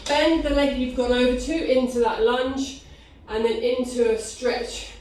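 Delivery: breathless instructions; out of breath. Real, not acted. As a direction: talk while out of breath. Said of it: "Sorry, I'm so out of breath".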